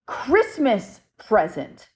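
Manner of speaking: slow, drawn-out "Christmas present" in a light spirit-box voice. Retold or imitated. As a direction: stretch "Christmas present" out slowly like a ghost's message. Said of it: "He literally said".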